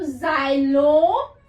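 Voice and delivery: ज़ाइलोफोन in drawn-out syllables, zai-lo-fon; slow, separated ज़ाइलोफोन; syllable division. Shown as a demonstration. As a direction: stretch each syllable of ज़ाइलोफोन loudly. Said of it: "इसको syllable division से बातें".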